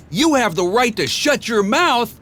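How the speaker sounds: high, sneering witch; nasty witch. A narrator's reading. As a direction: spit the retort. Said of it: "a witch said nastily".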